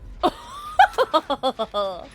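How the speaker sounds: high, rolling laugh; drawn-out laugh. Real, not acted. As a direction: let out a long, high laugh. Reacts to going one hit down.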